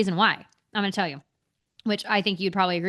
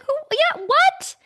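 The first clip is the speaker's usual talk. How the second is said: mock confused old man; 9 semitones higher, slower than usual. Mocking confused old congressmen.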